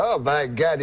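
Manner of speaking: put-on comic Frenchman uncle accent; French-Canadian accent. Uncle tells cab driver he loves riddles, French-Canadian accent. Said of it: "That's how he talks".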